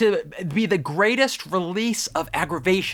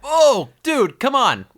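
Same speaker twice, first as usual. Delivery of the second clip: high, loud mock protest; exasperated outburst; 8 semitones higher, 4 dB louder, slower than usual. Real, not acted. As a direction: groan it out in disbelief. Mock outrage at joke.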